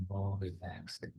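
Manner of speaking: breathy echo, whispered; soft spa whisper. Shown as a demonstration. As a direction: let the repeat fade into a whisper. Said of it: "let your brain be more relaxed".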